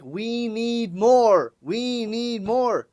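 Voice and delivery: slow, drawn-out mock pleading; begging fans. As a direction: imitate a crowd begging, stretching each word. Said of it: "they've been begging for more".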